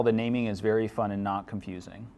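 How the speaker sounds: dry sarcastic tone. Real, not acted. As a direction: say it with heavy irony. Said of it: "I'm being very sarcastic there".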